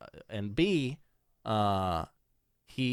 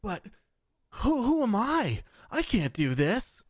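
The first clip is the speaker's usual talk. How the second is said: whiny hero; 10 semitones higher than usual. Retold or imitated.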